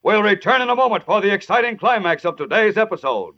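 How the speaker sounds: booming announcer read; old radio announcer. Acted. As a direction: sell the cliffhanger. Announcer bridges to ad.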